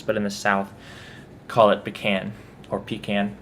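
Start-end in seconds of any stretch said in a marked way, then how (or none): 1.8-3.4 Southern "pecan" with a flat A and an emphasized E; Southern pronunciation. Retold or imitated. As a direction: say "pecan" as pee-CAN, as in the South. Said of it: "emphasizing on the E especially".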